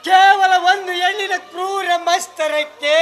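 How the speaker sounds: anguished anger. Acted. Father condemns the cruel woman.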